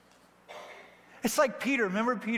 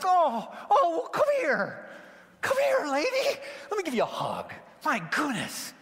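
high, half-crying mock coo; hammed-up tearful welcome; gushing pity; 9 semitones higher than usual. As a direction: play overcome with sympathy, pitched way up. Imagines himself as Jesus, gushing pity.

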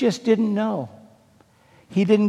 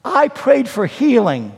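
angry lament to God; 2 semitones higher than usual. Retold or imitated. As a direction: shake your fist at God in words. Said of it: "he's telling God off".

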